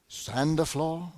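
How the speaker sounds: imitated Japanese accent, slow; hint of a mock Japanese accent; Mr. Miyagi's accent. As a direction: lightly imitate an old movie sensei's Japanese accent. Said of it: "That's a pretty good accent".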